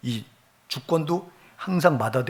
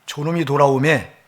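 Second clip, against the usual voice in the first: contemptuous; 4 dB louder than usual. Retold or imitated. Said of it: "저놈이라고 무시해버려요".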